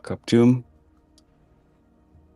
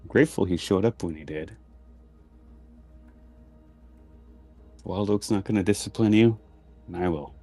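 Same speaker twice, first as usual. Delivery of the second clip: disappointed mom voice. Acted. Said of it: "Disappointed mom voice".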